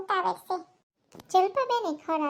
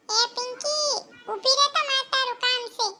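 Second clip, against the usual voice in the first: calling across to a neighbour, raised voice; 4 semitones higher, 4 dB louder than usual. Acted. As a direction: hail her to stop her. Calling out to Pinky. (ઊંચા અવાજે બૂમ પાડીને બોલાવવું)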